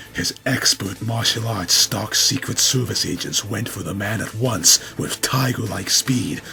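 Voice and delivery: ordinary delivery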